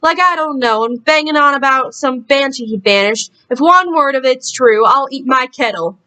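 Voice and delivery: accidental Southern twang for a character; lightly Southern-accented grumble. Acted. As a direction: slip into a mild Southern accent. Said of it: "why did suddenly he get a southern accent".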